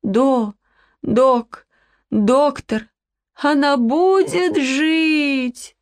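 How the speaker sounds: put-on a child begging through sobs; crying child asking the vet if the dog lives; sobbing plea. A narrator's reading. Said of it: "принялась рыдать".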